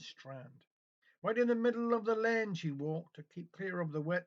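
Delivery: a lively storytelling recital with rhyme and rhythm; poem recitation. Acted. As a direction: tell the ballad to the listeners, lines carried by the verse. Reciting a Cornish narrative poem.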